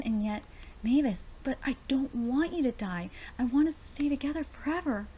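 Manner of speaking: emphatic, heartfelt dialogue reading; dramatic manga reading. Acted. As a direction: read the character's confession out with feeling. Reads manga dialogue aloud.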